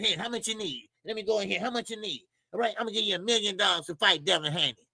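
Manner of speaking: a light, hushed impression of a rich promoter making an offer; mock Turki offer. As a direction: dangle the money casually, hushed. Voicing Turki handing out money.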